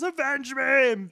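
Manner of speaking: high, loud, slow ghostly command; a high, loud, slow hammed-up Goblin voice; Green Goblin ghost. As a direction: draw it out like a vengeful spirit. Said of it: "And he goes".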